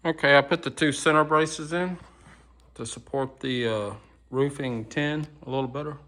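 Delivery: talking around sunflower seeds; cracking sunflower seeds. Real, not acted. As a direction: mouth full of seeds, chewing. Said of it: "Sorry, I got sunflower seeds in my mouth".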